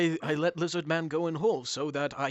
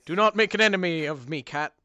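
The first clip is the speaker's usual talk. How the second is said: booming demon lord; 5 dB louder than usual. Acted. GM voices menacing dog-god.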